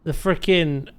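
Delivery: excited, high and slow; hoarse sleep deprived hype. Real, not acted. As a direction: hype up the gift. Thanking gifted subs on stream.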